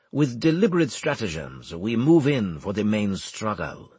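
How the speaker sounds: lightly voiced confident commander; measured, pronouncing on the battle; a hint of a grand strategist; Armel.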